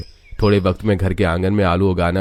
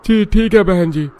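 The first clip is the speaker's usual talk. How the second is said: high vendor voice; 11 semitones higher, 4 dB louder than usual. Acted.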